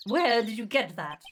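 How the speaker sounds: slow, put-on French accent; demanding question in a French accent. Vasquez demanding where they got the picture, French accent. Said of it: "My French accent is amazing".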